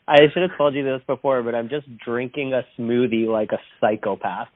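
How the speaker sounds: phone line audio; speaking through a phone call; over the phone. Real, not acted. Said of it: "I am on the phone right now with".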